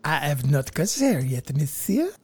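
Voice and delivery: put-on light French lady accent, teasing; a hint of French lady for monsieur. Answering the co-host's dare in a light French lady accent. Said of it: "why did you refrain from a French lady accent".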